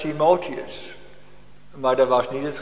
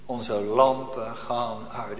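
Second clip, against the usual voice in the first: slow lament; 3 semitones lower, much slower than usual. Acted. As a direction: let the words sink slowly. Repeated lament, slow and low. (langzaam klaaglijk)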